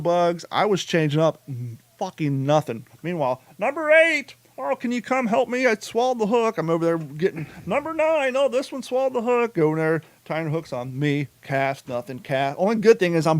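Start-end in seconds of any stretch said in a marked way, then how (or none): 3.6-6.6 put-on much higher, sing-song girlish plea; mimicking Carrie. Husband mocking Carrie calling for help, high sing-song. 7.7-9.5 put-on much higher, sing-song girlish plea; mimicking Carrie. Husband mocking Carrie calling for help, high sing-song.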